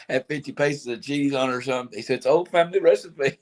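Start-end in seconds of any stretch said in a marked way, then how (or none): 2.2-3.4 high quoted voice; Mike Tyson. Retold or imitated. Retelling the sandwich video, high imitated voice. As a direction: retell his line pitched well up. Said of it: "YouTube video that was out of Mike Tyson".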